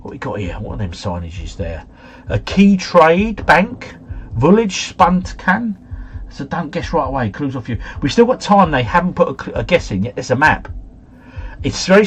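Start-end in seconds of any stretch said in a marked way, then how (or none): 2.3-5.8 put-on slow German-accented sign reading. Player reading out signage for clues, German accent. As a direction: draw it out with a slight German accent. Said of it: "putting a bit of a German accent on".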